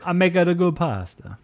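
lightly mocking Italian accent; Elon Musk Italian accent. Podcast co-host parodies a pasta boast, mock Italian accent. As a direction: echo it in a playful Italian accent. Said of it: "doing my best Elon Musk Italian accent".

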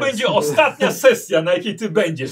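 jokingly threatening, loud; loud mock threat. Real, not acted. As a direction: play the angry game master.

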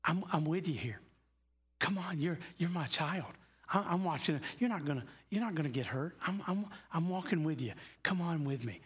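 put-on gently coaxing, like a parent to a child; God's reassuring voice. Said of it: "The voice of God is saying".

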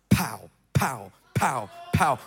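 low, popped "pow" sounds; imitated impact. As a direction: punctuate each hit with a low pow. Imitating people falling one by one.

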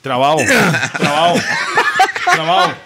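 high, squeaky repeated word; squeaky repetition. Retold or imitated. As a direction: mimic a high friend's squeak. Imitating high friend. (voz aguda repitiendo)

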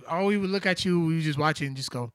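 normal talking voice

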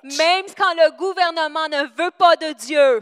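match the preacher's rising force; impassioned preaching. Real, not acted.

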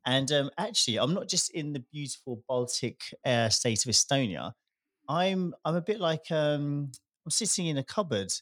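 echoey empty room sound; talking from a bare echoey cupboard; big hall echo. Real, not acted. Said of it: "do I sound quite echoey today".

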